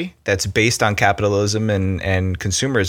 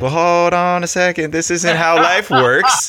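firm correction; 8 semitones higher, slower than usual. Retold or imitated. Confronting a customer's expectation.

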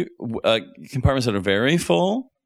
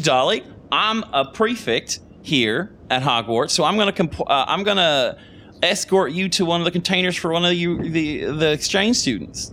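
put-on higher-pitched southern-accented prefect; accidental southern accent; 6 semitones higher than usual. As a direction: play a school prefect, slipping into a southern accent. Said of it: "I did a southern accent".

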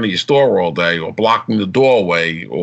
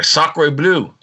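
mock French exclamation; 4 semitones higher than usual. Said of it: "That's very French".

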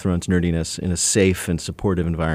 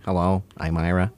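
Ira Glass voice. Retold or imitated. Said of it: "That was actually my Ira Glass impression".

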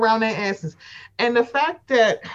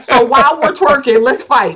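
louder, punchy quote of Robin; mock Robin quote; 7 dB louder than usual. Friend retelling Robin's line to cohost, loud mock delivery. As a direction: belt out the twerk-and-fight line as a joke. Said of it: "Robin was twerking on her good side and said".

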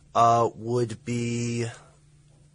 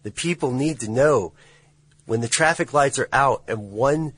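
raised voice; 2 semitones higher than usual. Real, not acted. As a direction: press the point hard, voice up. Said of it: "I'm sorry I raised my voice".

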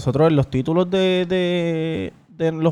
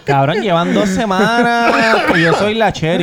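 laughing mock threat; 3 semitones higher than usual. Real, not acted. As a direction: tease them through a laugh. (amenaza en broma riéndose)

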